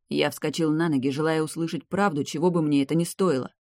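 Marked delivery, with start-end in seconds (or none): none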